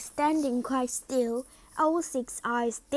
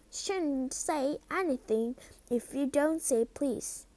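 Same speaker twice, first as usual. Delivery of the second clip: annoying voice; 3 semitones higher than usual. Acted. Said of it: "said Peeves in an annoying voice".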